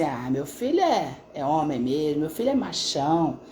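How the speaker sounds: understated macho swagger, retold; mocking boast. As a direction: lightly imitate a dad bragging about his son. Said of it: "meio que debochando, achando bonito".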